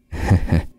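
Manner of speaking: quiet breathy chuckle; an unbothered little laugh; soft laugh. A narrator's reading. Old ghost woman chuckles at the panicked hairdresser, soft breathy laugh. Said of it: "Bà cười".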